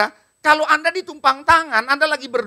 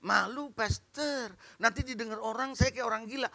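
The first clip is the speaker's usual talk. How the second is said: soft, lowered mock-shy voice; bashful objection; 4 semitones lower, 13 dB quieter than usual. Congregant afraid of seeming crazy, softly bashful. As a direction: play an embarrassed congregant, hushed and low.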